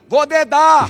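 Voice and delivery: high, loud drawn-out cry of a tattletale; shouted mock warning; imitated shout. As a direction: call it out like a threat to tell. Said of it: "eu ouvi o grito".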